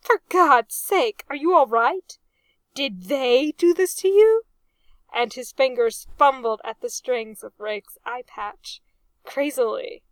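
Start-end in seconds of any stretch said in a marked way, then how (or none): 0.0-4.4 loud, raised, urgent questioning; frantic concern. A narrator's reading. Arthur fearing pirates hurt his friend, frantic and loud. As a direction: demand answers in alarm.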